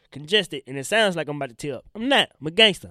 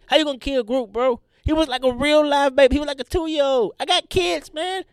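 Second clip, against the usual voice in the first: much higher, louder, distraught; upset rant; 8 semitones higher, 6 dB louder than usual. Real, not acted. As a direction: wail it in mock grief. Grief rant about Groot's death.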